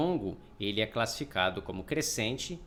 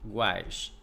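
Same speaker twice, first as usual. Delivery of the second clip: "Iguais" split into I, pause, GUAIS, lower; split syllables; 6 semitones lower than usual. Shown as a demonstration. Teacher separating Iguais as they write, split syllables. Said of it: "Eu vou separar aqui".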